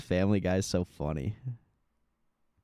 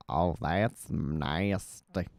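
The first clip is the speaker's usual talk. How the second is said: slow, lower drawn-out Cleveland; 5 semitones lower, much slower than usual. Shown as a demonstration. Streamer retrying Cleveland, slow and lower. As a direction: sink into Cleveland's drawl. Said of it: "even the Cleveland's kinda weird".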